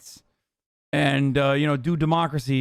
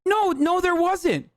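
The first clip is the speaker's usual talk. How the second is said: mock denial; 12 semitones higher, slower than usual. Mocking the news guest's claim.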